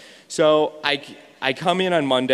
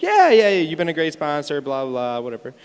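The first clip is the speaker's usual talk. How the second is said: imitating a breezy lady; dismissive brush-off. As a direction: wave it away like it's nothing. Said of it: "And she's like".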